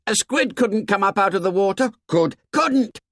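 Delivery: put-on high-pitched boyish shout, held in volume; shouted objection. A narrator's reading. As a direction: call out a protest, voice pitched right up. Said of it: "Someone shouted".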